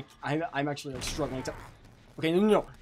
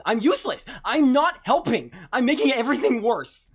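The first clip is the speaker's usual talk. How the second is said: distressed wail; 5 semitones higher, 9 dB louder than usual. Real, not acted. Distressed self-blame.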